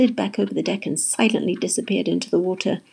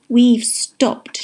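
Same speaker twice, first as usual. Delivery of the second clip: raised, higher-pitched call; shouting; 4 semitones higher, 6 dB louder than usual. A narrator's reading. Jessie as the ship grinds to a halt, shouting. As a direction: call it out in alarm. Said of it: "shouted Jessie".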